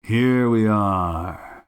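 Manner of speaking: slow, drawn-out cheerful welcome; cheerfully. A narrator's reading. Detective showing guest into his room, slow and cheerful. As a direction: announce arrival with leisurely good cheer. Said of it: "said Holmes cheerfully".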